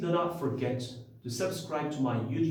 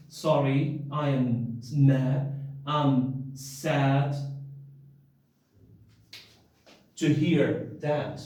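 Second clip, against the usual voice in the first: sympathetic; 3 semitones lower, much slower than usual. Shown as a demonstration. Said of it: "It means I am sad".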